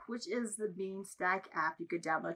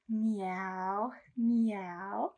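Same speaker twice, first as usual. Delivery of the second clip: cat meow. Pretend. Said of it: "what does the kitty say?".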